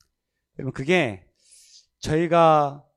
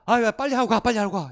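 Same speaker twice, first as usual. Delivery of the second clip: loud, high hurry-up call; impatient yell; 8 semitones higher, 7 dB louder than usual. Retold or imitated. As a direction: bark it like uneasy drinkers wanting it over. Drinkers urging him to hurry.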